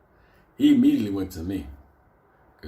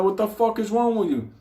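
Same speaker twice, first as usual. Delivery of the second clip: mock outrage; 12 semitones higher, 4 dB louder than usual. Yelling at Ramon.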